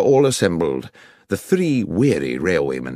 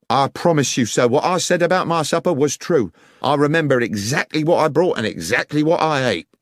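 a hint of an anxious railway guard, higher; earnest protest; 8 semitones higher, 4 dB louder than usual. Guard protests to Holmes that his story is true, earnestly pleading. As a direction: insist on his honesty, a little pleading.

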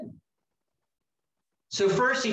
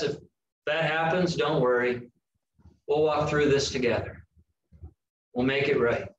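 comforting voice; 3 semitones lower than usual. Retold or imitated. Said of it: "God's comforting voice says".

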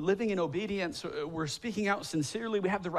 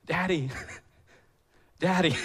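put-on whining toddler. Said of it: "I just remember him whining".

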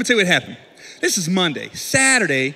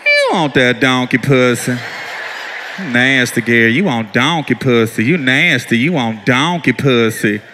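low, slow, calm wife taunt; wife's low calm taunt; 11 semitones lower, slower than usual. Retold or imitated. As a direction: calmly chant it low and slow. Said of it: "she was remaining calm".

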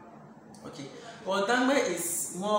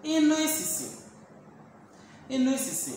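"Inú ìsìsì" pitched much higher, falling; tones demo; 9 semitones higher, faster than usual. Shown as a demonstration. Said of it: "Well, I'm a foreigner".

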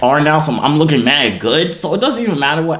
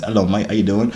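lightly put-on British accent; attempted British accent; 3 semitones lower than usual. Shown as a demonstration. Showing off to viewers as an accenteer, attempted British accent. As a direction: have a rough go at British. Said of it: "I can do multiple accents".

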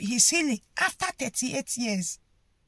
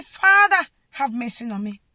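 crying out; 5 dB louder than usual. Acted. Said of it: "call on Jesus and say".

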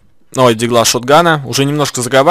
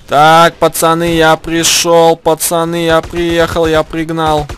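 triumphant announcing; 4 semitones higher, 4 dB louder, slower than usual. Real, not acted. Arriving with car, announcing.

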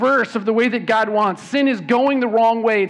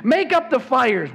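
hearty command; 6 semitones higher than usual. Acted. Reading Scrooge's order.

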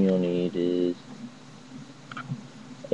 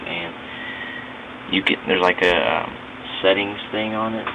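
recorded through a phone mic, scratchy and garbled; speaking through a phone app mic, a little staticky; cheap phone mic. Real, not acted. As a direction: talk into a cheap phone microphone. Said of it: "Kinda scratchy".

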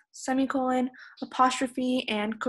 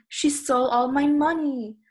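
raised, upset outcry; emotional yell; 3 semitones higher, 4 dB louder than usual. Shown as a demonstration. Teacher showing how they'd react to getting robbed, emotional yell. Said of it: "yell out full of emotion".

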